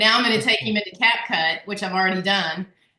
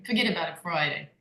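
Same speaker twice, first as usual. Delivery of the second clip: badly faked Brooklyn, lower and softer; Brooklyn accent; 4 semitones lower, 5 dB quieter than usual. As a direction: try a clumsy Brooklyn accent. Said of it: "oh, that was terrible".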